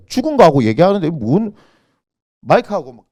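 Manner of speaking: normal talking voice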